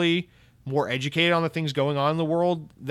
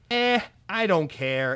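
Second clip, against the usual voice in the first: mock indifference; 4 semitones higher, slower than usual. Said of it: "it's just like".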